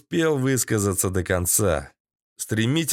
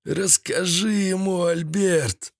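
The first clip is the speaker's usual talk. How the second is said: high, pained groaning plea; whimpered high-voiced appeal; moaning; 7 semitones higher, slower than usual. A narrator's reading. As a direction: moan it out in pain. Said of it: "простонал Седой".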